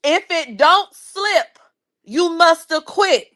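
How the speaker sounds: lightly hammed-up quote; mock yell. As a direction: drag out the chant like the baby oil man. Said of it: "Let me read it again".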